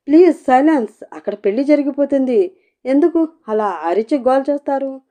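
niece annoyed at the noisy aunt; irritated. A narrator's reading. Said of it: "విసుక్కుని".

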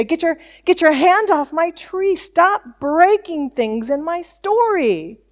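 high-pitched exasperated rebuke, slowing at the end; mock scolding. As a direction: act out an indignant telling-off. Imagined angry voice of God.

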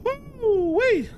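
high excited whoop. Real, not acted. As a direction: let out a big excited whoop. Hyping up before scary game.

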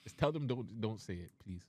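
soft, polite plea; softened, courteous appeal; polite request. Real, not acted. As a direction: ask it gently and politely. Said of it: "Just politely".

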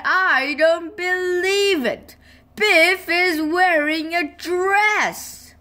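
put-on high, astonished old-lady exclamation; amazed gran. A narrator's reading. Gran seeing Biff in a dress, high and astonished. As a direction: gasp it out as a startled grandmother.

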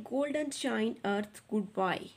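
"golden shine earth goodbye" read very slowly and evenly; slow fluent reading. Shown as a demonstration. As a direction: read each word out slowly for the class. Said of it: "बच्चों इस तरह से पढ़ेंगे". (धीमे और साफ़ पढ़ना)

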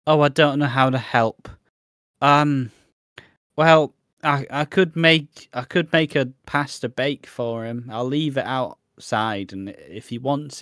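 mocking Facebook mum. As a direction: play the well-meaning clueless mum. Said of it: "Facebook mums being like".

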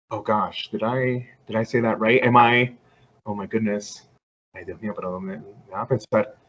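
understated anxious muttering to oneself; anxious self-doubt. Retold or imitated. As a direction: fret under your breath, second-guessing yourself. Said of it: "it causes a lot of anxiety".

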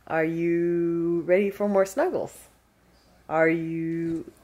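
slow, soft coo to the pet; a light pet-talk voice; gently teasing the dog about snuggles; doggy talk. Real, not acted. Coos at the dog.

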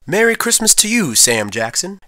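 a high, mild call across the yard; lightly voiced holiday call from Papa. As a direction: call out a cheery greeting. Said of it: "we heard Papa call out".

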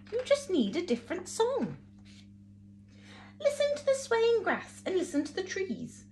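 gentle cricket voice. Acted. Wise cricket gives advice.

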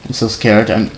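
quiet trembling fear; shaky scared voice. Real, not acted. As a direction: stammer with fright. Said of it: "I'm shaking".

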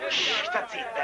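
hissed whisper, hushing someone. Acted. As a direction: shush her under your breath. Hushing a bidder. (sussurrato per zittire)

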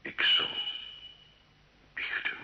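barely whispered, broken; whispered confession. Acted. Gilles yielding to the priest, a whispered surrender. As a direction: breathe the word out, defeated.

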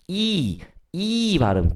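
이 held long as a stretched "ee"; long vowel. Shown as a demonstration. Teacher showing students the long vowel, 이 stretched out. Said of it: "긴 모음이에요".

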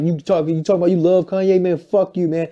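high, loud, fast mock rant; hammed-up furious fan voice; mock angry fan. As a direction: imitate an angry fan yelling at you. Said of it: "They're like".

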